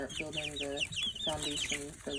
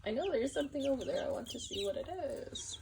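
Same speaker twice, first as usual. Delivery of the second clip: voicing a curious chick; 10 semitones higher, faster than usual. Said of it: "this one here that keeps looking up".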